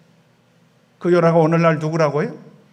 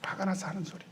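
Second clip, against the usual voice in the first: a soft, knowing conclusion to his own question; muttered answer; 14 dB quieter than usual. Shown as a demonstration. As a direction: drop the voice and settle it quietly. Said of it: "알고 하는 소리예요?".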